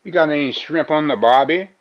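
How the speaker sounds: lightly hammed Australian accent; mock Australian accent. Finding a line to show the accent, mock Australian. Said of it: "I needed to find a line".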